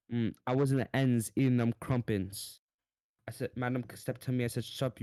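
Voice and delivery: mock British rapper spitting bars; hammed-up London rap flow; london roadman accent. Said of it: "I'm gonna spit some bars".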